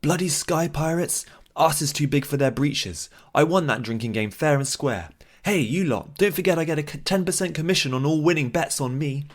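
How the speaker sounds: loud, high, outraged yelling; indignant shout. Acted. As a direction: yell it over the brawl. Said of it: "and cried".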